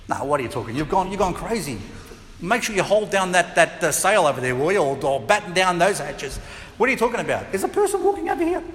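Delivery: mock scoffing fisherman, rising at the end; disciple arguing. One disciple scoffs at another about the figure, mock arguing. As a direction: brush him off, then insist.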